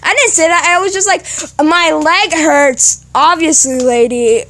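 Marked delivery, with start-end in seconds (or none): 1.6-3.0 "My leg hurts" drawn out very slowly; exaggerated retelling. Kid telling the desk lady "My leg hurts", exaggerated and slow. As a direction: stretch "leg hurts" out, at normal pitch. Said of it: "that's not what I exactly say".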